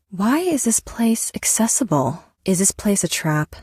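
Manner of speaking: wary hushed question; whispered. Acted. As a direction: whisper it warily. Suspicious in hiding place.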